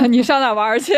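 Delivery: laughing while repeating 你上哪玩儿去; laughing echo. Retold or imitated. Echoing the guest's Beijing line, laughing. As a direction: chuckle your way through the line. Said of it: "说慢了不会说了".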